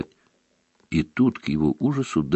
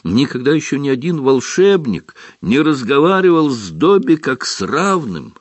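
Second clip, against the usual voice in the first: house elf voice; 8 semitones higher, 4 dB louder than usual. Acted. Dobby speaks, overwhelmed.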